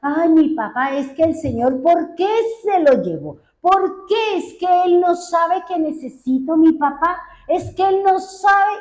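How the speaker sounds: mildly voiced childlike pleading, pitch climbing through the questions; Estefanía's tearful lament. Small girl asking why God took her father, imitated plaintive lament. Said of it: "y ellos lloraban".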